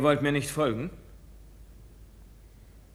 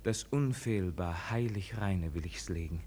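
hushed plea; 5 semitones lower, 9 dB quieter than usual. Acted. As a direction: lay your heart open in near whisper. Intimate plea to beloved.

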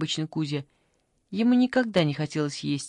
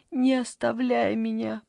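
higher, begging plea; pleading; 5 semitones higher than usual. Acted. Granny begs the boy to stay, pleading higher. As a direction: beg him to stay. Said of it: "попросила бабушка".

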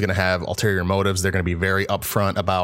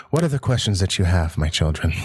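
put-on creepy old man voice. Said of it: "I'm making him sound probably a lot creepier".

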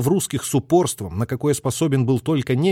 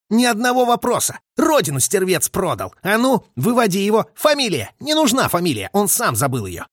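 furious condemnation; 8 semitones higher than usual. A narrator's reading. Orlov condemns the traitor and orders him out, furious. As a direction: hurl the sentence at the traitor.

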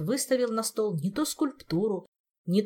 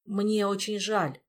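slow, sheepish regret; guilty apology; 3 semitones higher, slower than usual. Acted. Stranger apologising for his mistake, slow and guilty. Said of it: "виновато добавил мистралиец".

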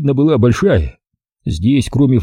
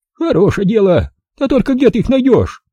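put-on higher, brisk old-woman voice; old village granny; 12 semitones higher than usual. Old granny greeting the city visitor, high old-woman voice. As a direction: voice the feisty village grandmother.

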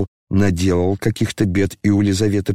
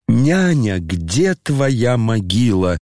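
lamenting cry; slower than usual. Acted. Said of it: "Это кто воскликнул".

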